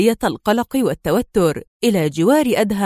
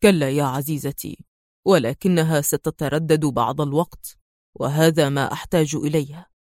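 smiling calm; 6 semitones lower, 3 dB quieter than usual. A narrator's reading. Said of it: "ابتسم وهو يعود ... وقال".

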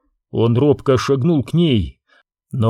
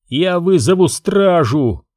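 firmly; 5 semitones higher, slower than usual. Acted. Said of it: "твёрдо заявил".

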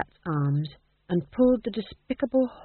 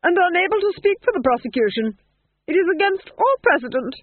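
calm duchess; 11 semitones higher, 6 dB louder than usual. Acted. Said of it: "said the Duchess calmly".

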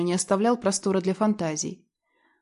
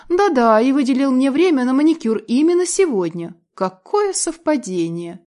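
loud, higher mocking retort; sarcastic; 5 semitones higher, 5 dB louder than usual. A narrator's reading. Wife mocking husband's excuse, loud sarcasm.

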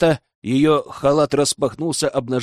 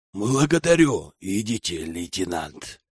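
hoarse; 7 semitones lower, 3 dB quieter than usual. Acted. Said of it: "хриплым голосом ответил лжеректор".

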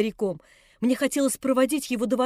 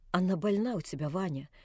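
put-on crushed old man; 4 semitones lower, 6 dB quieter than usual. A narrator's reading.

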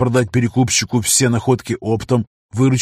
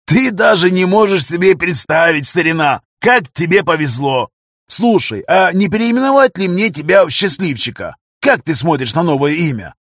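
much higher, louder excited rant; excited shouting; 6 semitones higher, 4 dB louder than usual. A narrator's reading. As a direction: gush with joy at a friend. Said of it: "заразились его весельем".

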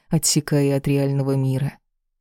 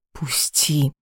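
hissed through teeth. A narrator's reading. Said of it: "прошипела сквозь зубы". (шипение сквозь зубы)

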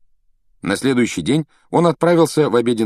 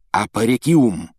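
slow, deliberate magic word; drawn-out incantation; spell incantation; slower than usual. A narrator's reading. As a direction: intone it like a spell. Hermione casts a spell.

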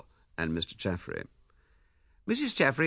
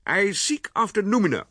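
lightly voiced smug Chaffrey, higher and louder; great satisfaction; 11 semitones higher, 7 dB louder than usual. A narrator's reading. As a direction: savour "noumena" with pompous pleasure. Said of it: "repeated Chaffrey with great satisfaction".

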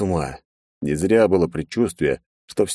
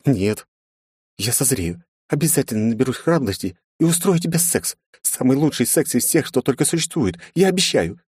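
put-on higher girlish voice, sniffling promise; tearful young princess; 8 semitones higher than usual. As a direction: promise it through tears.

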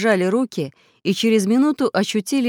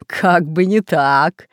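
mocking villain; 6 dB louder, much slower than usual. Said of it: "засмеялся повелитель растений".

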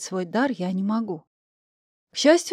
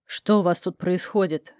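stern; 3 semitones lower than usual. Acted. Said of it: "грозно спросил".

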